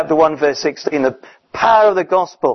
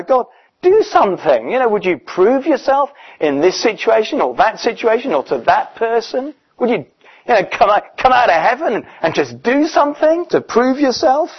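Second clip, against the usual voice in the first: pleading higher and higher, rising to a near cry; urgent prayer; 6 semitones higher than usual. Retold or imitated. Preacher voicing a believer's impatient prayer to God, urgent pleading. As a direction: beg God to act, climbing in pitch. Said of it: "the urgency of the prayer".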